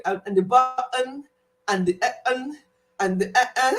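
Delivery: mock Scottish with swallowed consonants; imitated Scottish accent. Vlogger mimicking Code's speech for laughs, imitated Scottish accent. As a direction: catch the t's in a Scottish glottal stop. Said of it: "get some of the accent".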